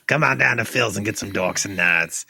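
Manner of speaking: cheesy local TV ad pitch; ad announcer voice. Pretend. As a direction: sell it like a late-night commercial. Mock restaurant ad.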